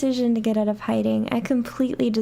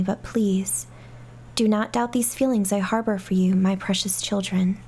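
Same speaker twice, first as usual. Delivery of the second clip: letter reading. Acted. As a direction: read it like a sombre farewell letter. Reads mother's deathbed letter.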